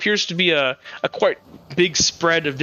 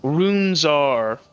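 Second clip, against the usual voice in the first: lightly voiced masked mentor, measured and a little lower; masked man; 3 semitones lower than usual. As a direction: explain it like a patient, slightly formal scholar. Masked man speaks as character.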